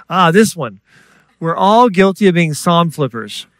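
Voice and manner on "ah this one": a lifted, relieved "ah"; mock satisfied find; pleased discovery. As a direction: land happily on the one you wanted. Acts finding a pleasing Psalm.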